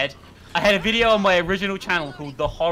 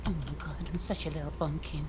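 mock witch voice; 5 semitones lower, 15 dB quieter than usual.

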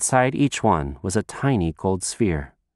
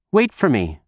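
a lighter call, a bit louder; 4 semitones higher, 3 dB louder than usual. Acted. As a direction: call after her child. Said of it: "her mom called out".

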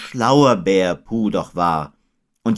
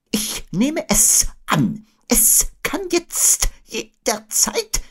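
Eule; much slower than usual. A narrator's reading. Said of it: "erläuterte Eule".

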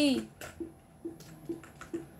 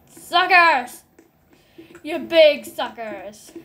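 taunting; 4 dB louder, slower than usual. Real, not acted. Taunting others in game.

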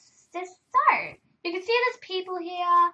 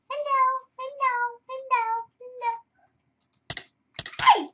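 calling out; 9 semitones higher, 5 dB louder than usual. Real, not acted. Calling out to players.

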